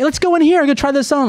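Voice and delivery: very high, mock girlfriend voice; imitated girlfriend. Guest mimics girlfriend shopping while he suffers, high-pitched imitation.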